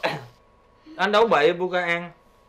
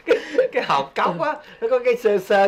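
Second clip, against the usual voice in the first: laughing through the words; giggling about the stuck seed; 3 semitones higher than usual. Real, not acted.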